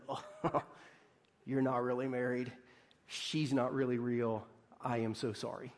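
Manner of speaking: low, soft condolence with a slight laugh; mock-pitying. Friend telling someone the marriage isn't real, mock-pitying. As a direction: let them down gently, voice dropped.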